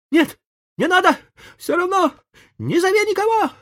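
very high, loud theatrical wail; milk the fake suffering; hammed-up dying boy. A narrator's reading. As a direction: Tom pretending to be ill. Tom feigning agony.

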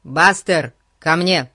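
loud, short call to a dog. Acted. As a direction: call the dog sharply to heel. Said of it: "закричал Фати".

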